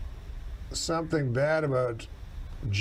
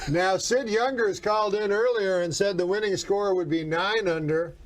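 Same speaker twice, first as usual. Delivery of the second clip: golf commentator. Acted. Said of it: "why are you talking at that range still?".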